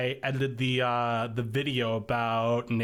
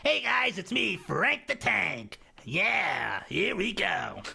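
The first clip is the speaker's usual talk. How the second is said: high, slow dopey character voice; Frank voice; 7 semitones higher, slower than usual. Shown as a demonstration. Showing the host his character voice, high and dopey. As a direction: sell it as goofy Frank the Tank. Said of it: "this is the Frank voice that I have here".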